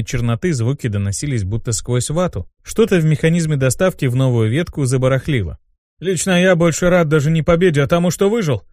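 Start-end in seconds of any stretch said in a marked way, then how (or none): 6.0-8.6 higher, emphatic relief; exclaiming. Acted. Demon glad to have survived, exclaiming. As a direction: exclaim it with feeling. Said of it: "воскликнул Мотив".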